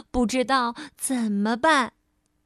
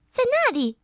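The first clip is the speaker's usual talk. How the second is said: elf voice; 10 semitones higher than usual. Acted. Elf points out hole.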